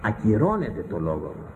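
normal talking voice

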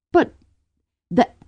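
halting, then high and slow; stammer, then rise into wonder; amazed. A narrator's reading. Drew hears what she wanted Ku to say, amazed.

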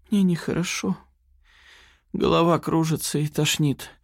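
a mild put-on whimper; plaintive squeak. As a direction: play weak and sick, a thin plea. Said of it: "жалобно пискнула Лапина".

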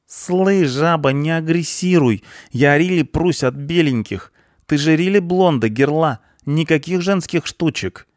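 high, loud cheeky punk voice. A narrator's reading. Punk mouthing off at the cleaner, cocky. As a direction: fire off slang in a high, excited voice.

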